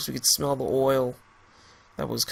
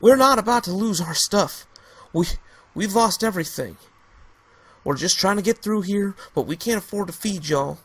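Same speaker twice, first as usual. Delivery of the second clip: loud, high angry protest; 7 semitones higher, 4 dB louder than usual. Acted. Trevor defying the rifleman, angry and loud. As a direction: push back hard, teeth gritted. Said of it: "Trevor got angry, gritting his teeth".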